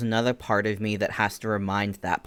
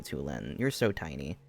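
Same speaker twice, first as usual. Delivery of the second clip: soft, lower cooing; 7 semitones lower, 8 dB quieter than usual. Real, not acted. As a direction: murmur it fondly to the tiny chick.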